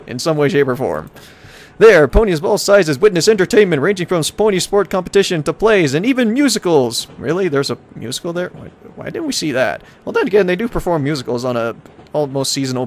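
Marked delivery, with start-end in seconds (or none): 1.8-7.1 high, upbeat brochure voice; hammy, raised-pitch travel announcer; tourism ad read. Acted. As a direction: sell each attraction like a promo. Reads travel brochure aloud.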